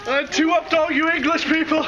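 loud, high triumphant boast; excited boast. Real, not acted. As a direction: crow about winning, still shivering. Boasting right after the soaking.

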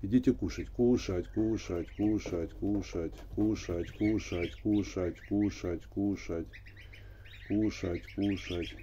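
coaxing call to feed; sing-song feeding call; calling geese to eat. Real, not acted. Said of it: "говорить с ними надо".

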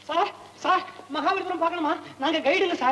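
hawking to a tourist. Acted. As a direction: call out to a tourist like an eager guide. Guides hailing a passing tourist. (வாடிக்கையாளரைக் கூவி அழைப்பது)

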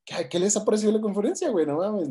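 pushy, high-pitched repeat of the question; butting in. Retold or imitated. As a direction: imitate an ignored stranger forcing his way into the chat. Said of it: "como que se mete ahí".

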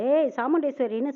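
a mild mock shout across the street; calling out. Man calls out to the rival woman on the street, mild mock shout. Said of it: "சத்தம் போடுறாங்க".

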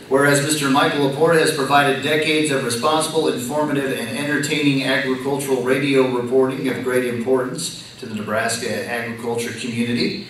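measured official read-aloud; formal proclamation reading. Real, not acted.

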